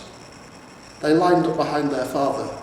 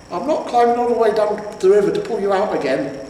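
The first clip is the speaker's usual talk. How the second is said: high, loud roar; 8 semitones higher, 6 dB louder than usual. A narrator's reading. Troll wife roaring at her husband from below. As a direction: roar it across the bridge. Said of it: "Beryl roared".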